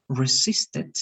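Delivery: "resisted" slowly, ending in a short "tid"; corrected pronunciation. Shown as a demonstration. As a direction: spell out "resisted" as re-SIS-tid. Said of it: "ite," instead of "resisted".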